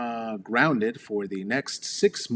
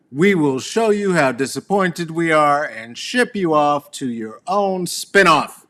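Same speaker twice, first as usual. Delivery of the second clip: high, loud, grand sitcom-mom lecture; mock TV sitcom parent; 7 semitones higher, 6 dB louder, slower than usual. Mother mocking a sitcom parent, in a high, loud put-on voice. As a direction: ham it up like a TV mother scolding. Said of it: "as one would when one's proving a huxtabillion point".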